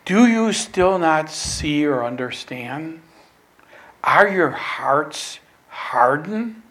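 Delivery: slow, gentle questioning reproof; loving rebuke. Retold or imitated. Jesus questioning his forgetful disciples, loving rebuke. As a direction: chide them tenderly, question by question. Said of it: "it's rebuke and love".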